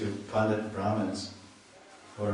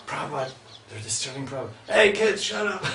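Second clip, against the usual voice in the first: higher, louder retold shout at the kids; retold yell; 5 semitones higher, 3 dB louder, faster than usual. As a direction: yell at the noisy kids as the voice from the back of the temple. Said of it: "you hear some voices in the back".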